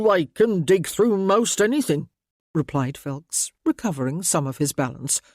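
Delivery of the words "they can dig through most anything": rough ratcatcher. A narrator's reading.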